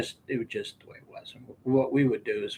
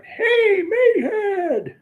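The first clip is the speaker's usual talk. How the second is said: laughing call; 7 dB louder, much slower than usual. Retold or imitated. Calls the kid a name.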